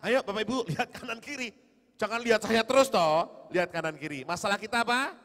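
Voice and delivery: loud, high call to the crowd; urging the congregation. Real, not acted. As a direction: rouse them to look around. Preacher urges congregation to look. (seruan keras mengajak jemaat)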